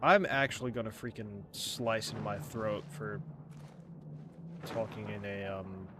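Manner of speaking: British accent, trailing off softly; exasperated British accent. Real, not acted. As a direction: grumble in a British accent, fading out. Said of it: "a British accent".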